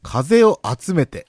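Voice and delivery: 風を集めて said slowly with standard accent; careful slow 風を集めて; correct intonation. Shown as a demonstration. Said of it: "それが正しい".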